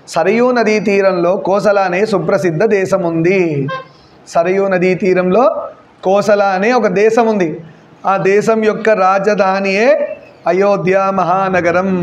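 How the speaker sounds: slow, measured dictation for note-taking. Acted. Teacher dictating the Ayodhya description to the class, slow and measured. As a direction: spell it out slowly so students can write.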